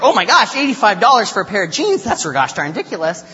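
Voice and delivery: high, loud mock outrage easing off at the end; upset woman. Woman outraged at the price of jeans, mock-upset exclamation. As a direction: imitate a shopper appalled by the cost. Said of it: "This woman was upset".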